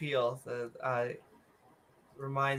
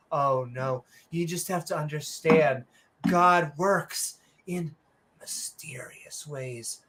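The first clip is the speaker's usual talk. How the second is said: solemn evasion, fading to a hushed finish; mock pious excuse; 2 semitones lower, slower than usual. Doomsayer excusing a failed prediction to an interviewer, mock pious and hushed.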